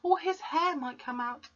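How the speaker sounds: high, soft anxious plea; teacher begging the headmistress, high and hushed; pleading cry. Acted. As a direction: beg her gently to stop. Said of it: "Miss Honey cried out".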